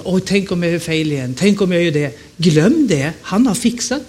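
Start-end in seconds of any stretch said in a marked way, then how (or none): 0.0-2.2 mock worried christian. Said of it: "många kristna lever sån".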